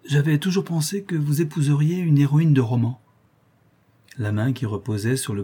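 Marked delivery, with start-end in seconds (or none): 0.1-3.0 a lightly ironic, higher jab; understated irony. Acted. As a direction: tease him about the storybook heroine. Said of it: "prononcés d'un ton ironique".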